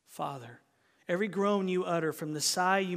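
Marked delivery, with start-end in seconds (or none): 0.1-0.6 softly voiced, low-key address; hushed invitation. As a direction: say it softly, almost a whisper. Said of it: "becomes an invitation to whisper".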